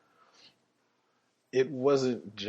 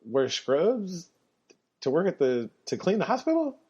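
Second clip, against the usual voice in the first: incredulous coach; 6 semitones higher than usual. Retold or imitated. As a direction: question it like it makes no sense. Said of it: "He's like".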